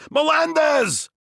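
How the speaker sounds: high, loud, slow blurted scream of the name. Retold or imitated. Nervous teen screaming his last name at the hottest girl, loud slow scream. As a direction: force the name out at full volume. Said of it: "screamed at the top of my lungs".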